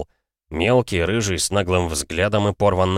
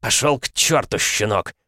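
barking; 3 semitones higher than usual. Acted. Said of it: "рявкнул он".

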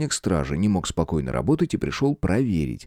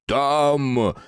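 squeal; 5 semitones higher than usual. A narrator's reading. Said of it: "взвизгнул здоровяк".

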